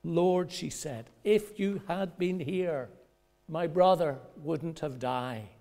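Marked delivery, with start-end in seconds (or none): 0.0-0.5 loud, high call; pleading cry. Retold or imitated. Mary calling out to Jesus in grief. Mary's plea quoted. 1.2-5.5 grieving reproach. Retold or imitated. Mary reproaching Jesus over her dead brother.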